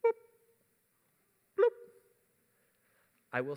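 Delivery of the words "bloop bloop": mock drip noise.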